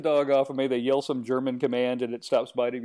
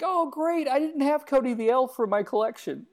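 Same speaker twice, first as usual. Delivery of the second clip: higher-pitched retold clinic worker; a hint of mock delight; clinic lady; 9 semitones higher than usual. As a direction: lightly voice a pleased collector, pitched up. Voicing clinic lady greeting injured elf.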